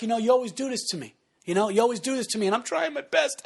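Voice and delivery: hammed-up wounded complaint; mock talking into crying. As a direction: build towards pretend tears. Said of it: "the funny thing about crying".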